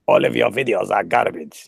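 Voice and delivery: sneering basement nerd, lightly voiced; forum nerd voice. Shown as a demonstration. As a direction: sneer like an online commenter. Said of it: "more like my forumer's voice".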